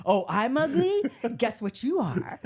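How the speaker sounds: laughing, sarcastic jab; mocking comeback. Kid firing back at brother, laughing sarcasm. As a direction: tease back with a laughing sneer.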